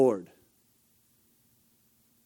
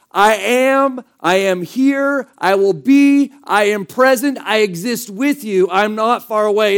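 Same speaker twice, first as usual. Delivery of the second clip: raised, slowed, insistent promise; God answering his people, reassuring and raised; reassuring declaration; 3 semitones higher, 4 dB louder than usual. Retold or imitated. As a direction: assure them you are right here. God's reassuring answer voiced.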